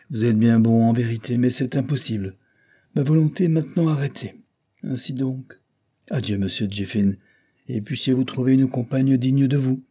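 cool final adieu; firm dismissal. Acted. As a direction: close the door on him. Afi's firm farewell.

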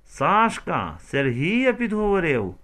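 high, loud slow disbelieving echo; mother echoing Raisa incredulously. A narrator's reading. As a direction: repeat it in disbelief.

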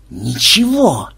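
slow, stretched hoarse remark; husky, hoarse voice. A narrator's reading. Teammate remarks after the egg breaks, hoarse voice. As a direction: say it slowly with a voice gone husky. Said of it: "заметил осипшим голосом Ксенобайт".

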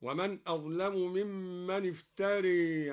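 افتري ending in a long "ray" instead of "raa"; imala. Shown as a demonstration. Teacher demonstrates al-Duri's imala, افتري tilted to "iftaray". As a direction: tilt the final vowel of افتري towards e. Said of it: "وكذا أمال قوله تعالى الراء من افترى".

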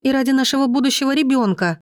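high, rising plea near tears; wife begging husband to stop the fight; desperate begging. A narrator's reading. Anya begging over phone.

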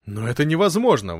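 выше и громче, изумлённо; Бертрам не верит своим глазам; горячее возражение. A narrator's reading. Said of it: "возразил Бертрам". (изумлённо, громче)

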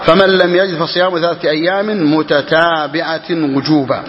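slow text reading. Acted. Reads the legal text aloud.

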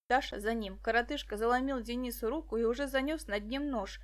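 ordinary delivery, nothing marked

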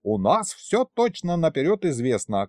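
high, folksy female voice; breezy kikimora. A narrator's reading. Kikimora brushing off grandfather, high and breezy. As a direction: announce plans in a high voice.

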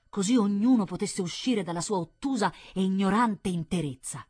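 impassioned nobleman's monologue; fanatical viscount. Acted. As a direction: preach your strange creed with rising conviction. Voices viscount's fervent monologue.

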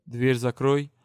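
a curt stern command; stern order. Acted. Curator orders the student to shut the door, stern. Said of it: "сурово приказали".

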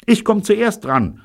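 very high, loud, drawn-out cry; shouting. A narrator's reading. Woman volunteering eagerly to be kidnapped, shouting. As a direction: cry out to be first. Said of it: "schrie Evelyn".

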